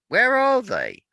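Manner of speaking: high, loud panicked question; frightened cry. Acted. Omrose startled by the empty cave, frightened high cry. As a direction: gasp it out in sudden fear.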